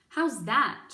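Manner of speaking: loud, questioning call; shouting. Acted. Mig shouts her question to the cook. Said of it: "shouted Mig".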